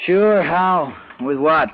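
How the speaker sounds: sharp high bitter retort; bitter scoff. Acted. Husband scoffing at wife's hope of moving, bitter and sharp. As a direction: snap back with sarcastic frustration.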